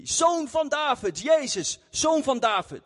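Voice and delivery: high, slow calling out for help; retold shouting. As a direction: cry out to him across the crowd. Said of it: "hij begon te schreeuwen". (hoog en langzaam roepen)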